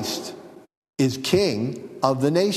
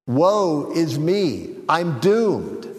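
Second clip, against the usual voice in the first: mock lament; 3 semitones higher, much slower than usual. Shown as a demonstration. Preacher translating oy vey, slow mock despair. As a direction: sigh it out, mock-doomed. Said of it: "Oy vey is mir".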